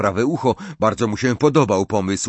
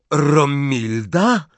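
slow, higher awed question; wild hope; 5 semitones higher, 4 dB louder, much slower than usual. A narrator's reading. Lovestruck boy hearing her name, wildly hopeful. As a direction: stretch the beloved name in amazement. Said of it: "twarz rozkwitła szaleńczą nadzieją".

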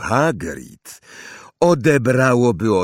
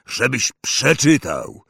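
slow, loud hearty giant; proud of the boy; 4 semitones higher, 3 dB louder, slower than usual. Acted. Hagrid proud.

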